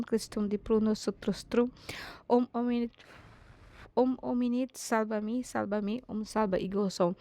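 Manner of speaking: steady, repetitive prayer formula; Latin prayer recitation. Real, not acted. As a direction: recite a Latin invocation line after line. Recites Latin prayer over viewers.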